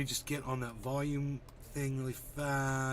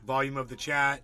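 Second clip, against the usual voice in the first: mock exasperation; 5 dB louder than usual. Real, not acted. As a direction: throw the viewer's complaint back, bemused. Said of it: "You're not being explicit enough".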